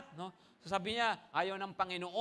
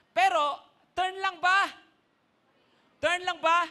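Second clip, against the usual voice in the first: challenging question; 9 semitones higher, 7 dB louder than usual. Real, not acted. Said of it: "rhetorical challenge to congregation".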